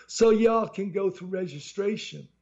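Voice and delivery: slow, bored Southern drawl. Acted. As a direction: drag it out, bored clerk. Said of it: "in a very bored voice".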